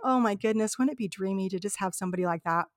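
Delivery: hushed, dreamy inner thought, retold; romantic daydream. Telling of admiring a stranger in the customs line, softly dreamy. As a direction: softly recall a private romantic wish. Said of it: "I think romantically in my own mind".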